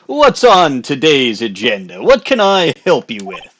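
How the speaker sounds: hyped-up showman. Acted. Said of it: "that hyped up persona".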